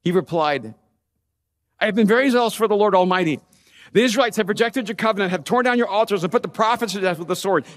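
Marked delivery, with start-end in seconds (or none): 1.8-7.6 fast, exasperated restatement; impatient repeat. Retold or imitated. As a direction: rattle it off as if God forgot. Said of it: "So I'm telling you again".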